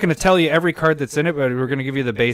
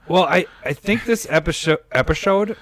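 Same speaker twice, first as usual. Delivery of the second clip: goofy high voice; 5 semitones higher than usual. Acted. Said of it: "don't know why you talk like that".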